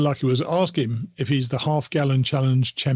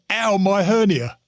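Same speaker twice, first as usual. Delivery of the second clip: slow mock groan; 3 semitones higher, slower than usual. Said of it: "the other one was".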